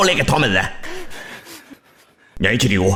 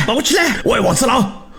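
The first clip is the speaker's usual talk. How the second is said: shouted call; 4 semitones higher than usual. Acted. Calling out to robber.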